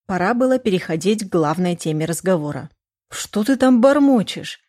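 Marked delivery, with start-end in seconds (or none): 3.1-4.6 wary mother. Acted. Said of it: "насторожилась мама".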